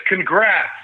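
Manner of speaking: texted cheer, mildly exclaimed; exclamation. Retold or imitated. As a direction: read out an exclamation with a lift. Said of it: "Exclamation point".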